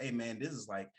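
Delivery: cool laid-back voice. Retold or imitated. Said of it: "how he was talking".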